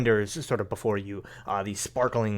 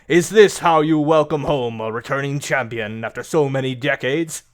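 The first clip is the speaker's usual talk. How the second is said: loud, booming indignant bellow; bellowing giant; 4 semitones higher, 7 dB louder than usual. Acted. Giant bellows at the guards blocking his way, loud indignant boom. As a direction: boom it out like a proud returning champion. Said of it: "bellows loudly".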